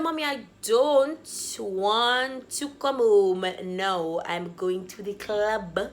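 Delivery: drawn-out, emphatic refusal to mom; exasperated. Retold or imitated. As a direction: stretch the words in fed-up protest. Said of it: "already exasperated".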